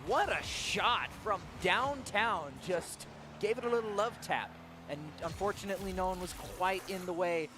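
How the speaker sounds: measured build bursting into a goal call; live play-by-play. Acted. Caster calls the first goal, excited play-by-play.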